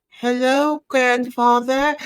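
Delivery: put-on high, slow, frightened little girl; a terrified child actor's stiff greeting; scared child. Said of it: "she's fear in her eyes".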